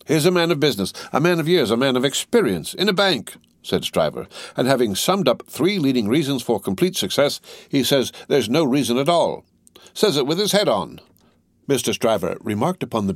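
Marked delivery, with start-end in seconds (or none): 0.1-3.4 high-pitched, incredulous indignation; indignant, mounting disbelief; angry. A narrator's reading. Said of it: "the angry Stryver". 4.6-11.0 higher-pitched, incredulous protest; indignant, exasperated complaint; angry disbelief. A narrator's reading. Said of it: "the angry Stryver".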